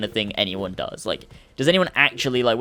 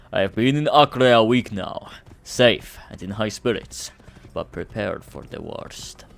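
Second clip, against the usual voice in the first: measured, slow hero's journal recital; solemn adventurer's narration, played for fun; mock-epic hero; slower than usual.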